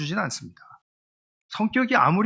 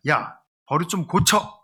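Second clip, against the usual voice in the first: commanding tone; slower than usual. Shown as a demonstration. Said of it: "명령하듯이가 아니라".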